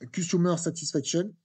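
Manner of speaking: English words said with a heavy French accent. Real, not acted. Teacher reading English terms to students, French-accented English. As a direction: read the English term the French way. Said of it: "Excusez-moi pour mon accent, anglais qui n'est pas bon".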